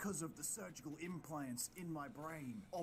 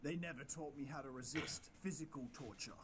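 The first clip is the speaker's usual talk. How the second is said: Baker voice. Acted.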